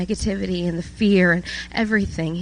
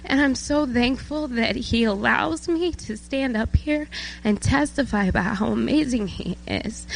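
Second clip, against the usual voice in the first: higher, moved voice near tears; emotional; 5 semitones higher, 3 dB quieter than usual. Real, not acted. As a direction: testify while fighting back emotion. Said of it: "I'm emotional 'cause".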